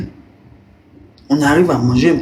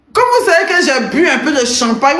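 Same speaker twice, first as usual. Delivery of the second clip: laughing; 8 semitones higher than usual. Real, not acted. Tipsy, laughing admission.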